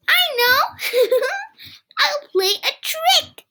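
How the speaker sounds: put-on high, giggly little boy plotting; laughing. Kipper giggling as he plans a trick on Dad. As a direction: giggle as the idea hits. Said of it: "Kipper laughed".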